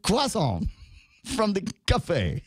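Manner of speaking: mock bougie. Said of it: "when you say it like that".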